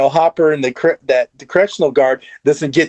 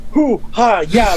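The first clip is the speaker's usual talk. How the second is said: cartoonish martial-arts noises, pitched up; mock kung fu cries; 5 semitones higher than usual. Co-host imitating Murray facing Russian guards, mock kung fu cries. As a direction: imitate comic karate grunts. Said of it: "like Hong Kong Phooey".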